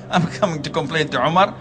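chuckling through the words, fast and soft; amused disbelief, laughing it off; a visitor laughing softly at the caliph's plight. Retold or imitated. Man laughs at Umar's situation.

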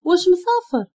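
startled questions climbing in pitch; taken aback, ending high; shocked. A narrator's reading. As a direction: pile up questions in rising disbelief. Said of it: "شهقت بالصدمة وقلت له".

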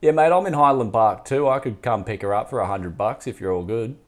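put-on laying on a thick Bogan accent; tough Bogan accent. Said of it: "I'm gonna put on a tough Bogan accent".

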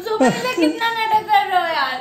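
laughing through tears; half laugh, half sob reproach; crying. Real, not acted. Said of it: "क्यों रोने लगी तू".

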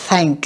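"thank" with an unvoiced, breath-only TH; voiceless TH. Shown as a demonstration. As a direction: blow the TH of "thank" without vocal-cord buzz. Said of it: "nó không có rung cho thanh quản". (âm TH trong "thank" không rung)

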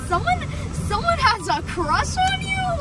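mock shocked, high disbelief; surprised. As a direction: squeak it out in disbelief. Retold reaction, funny face.

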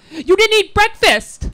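high, loud, slow nagging mom. Retold or imitated. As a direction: scold like a worried mother. Mother scolding in driveway.

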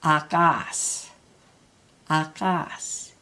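"Akas" with the second syllable stronger; light "A", weight on "kas"; stress on KAS. Shown as a demonstration. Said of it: "the next syllable louder".

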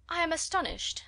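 high, exclaimed astonishment; astonished. A narrator's reading. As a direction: exclaim with affected amazement. Miss Bingley exclaims at small library.

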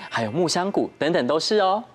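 ordinary delivery

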